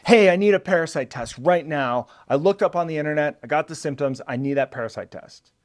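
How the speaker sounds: mock demanding patient, rushed then trailing off; hammed-up insistent patient demanding a test; a lightly overdone pushy patient; pushy patient parody. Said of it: "maybe I'm going a little too hard on that imitation".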